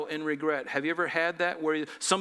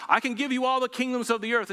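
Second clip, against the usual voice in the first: higher-pitched, lightly acted tempter's offer; a hint of the tempter, pitched up; tempting Satan; 6 semitones higher, 3 dB louder than usual. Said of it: "when Satan is trying to tempt him".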